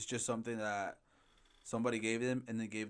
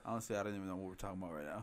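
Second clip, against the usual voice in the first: stoner; 3 semitones lower, 6 dB quieter, faster than usual. Real, not acted. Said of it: "I'm really high right now".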